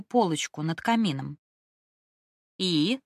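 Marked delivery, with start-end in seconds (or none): 2.6-3.0 mocking sing-song echo of И?. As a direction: drag И? out in a teasing sing-song. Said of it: "нараспев передразнила я подругу".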